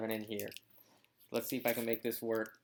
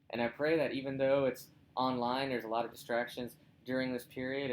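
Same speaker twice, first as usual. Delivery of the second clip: prayer. Acted. Leads a closing prayer.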